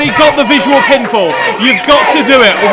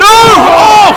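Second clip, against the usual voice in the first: surprised; 8 semitones higher, 7 dB louder than usual. Real, not acted. Big hit in the ring.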